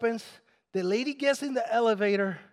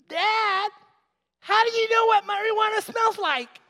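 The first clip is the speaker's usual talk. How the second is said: put-on very high small child voice; 11 semitones higher, 3 dB louder than usual. Father retelling his daughter's question to him, tiny little girl voice. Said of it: "this little tiny voice from one of my girls".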